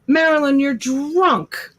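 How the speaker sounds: high-pitched teasing reprimand; mock-outraged, high voice; mock scolding.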